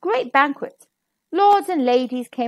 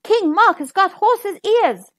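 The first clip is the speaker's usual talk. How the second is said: louder and slower, gaining nerve; a little louder; 7 semitones higher, 4 dB louder, slower than usual. Acted. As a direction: say the secret a bit bolder. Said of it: "a little louder this time".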